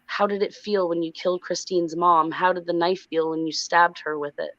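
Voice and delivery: understated, offhand mom voice; nonchalant. Retold or imitated. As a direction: ask it casually, as if nothing matters. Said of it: "her mom nonchalantly says".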